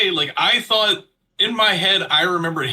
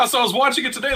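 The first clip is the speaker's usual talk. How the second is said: laughing; 7 semitones higher, much faster than usual. Real, not acted. Laughs recalling the rewatch.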